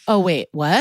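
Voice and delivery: imitated dumbfounded surprise; shocked. Liar learns the detectives checked, mock-shocked. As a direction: play a liar realising he's been caught. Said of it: "has the same shocked face".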